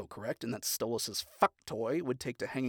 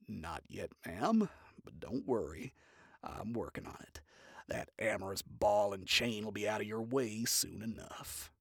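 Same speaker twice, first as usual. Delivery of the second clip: low male voice; 4 semitones lower than usual. Acted. Stryker voiced low on phone.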